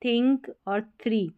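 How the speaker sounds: थिंक, थ्री begun with थ; th read as थ. Shown as a demonstration. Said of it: "तो टीएच का थ उच्चारण".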